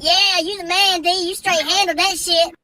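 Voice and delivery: high, slow cheering buddies; hyped friends. Retold or imitated. Teen's friends praising him for defying mom, high and slow. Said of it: "The boys are like".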